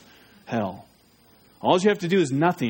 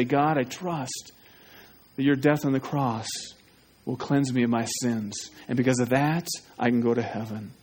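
humble prayer; 5 semitones lower, 3 dB quieter than usual. Shown as a demonstration. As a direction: pray it softly, bowed down. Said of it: "humble yourself and say".

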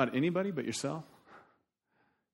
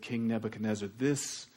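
voice of God; 5 semitones lower, 6 dB quieter than usual. Retold or imitated. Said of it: "and said".

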